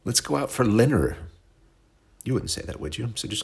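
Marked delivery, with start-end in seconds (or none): 0.0-1.2 high, prissy put-on voice for a dinner invite; mock fancy diner. Host mocking a fancy dinner invite, high prissy voice. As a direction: camp it up like someone gushing over dinner plans. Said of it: "let's say".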